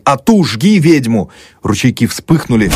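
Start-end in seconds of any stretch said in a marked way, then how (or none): 0.0-1.3 slow, high, loud jeering; mob yell. A narrator's reading. Street mob shouting at the house, loud slow jeer. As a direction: drag it out like a mob cry.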